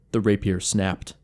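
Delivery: ordinary delivery, nothing marked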